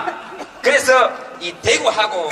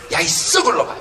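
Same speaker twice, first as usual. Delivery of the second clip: Jeolla insult; 4 semitones lower than usual. Pretend. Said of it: "이런 욕 보세요".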